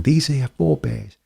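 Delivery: tentative stab at a Brooklyn accent; lightly Brooklyn, feeling out the accent. Shown as a demonstration. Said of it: "straight Brooklyn would be".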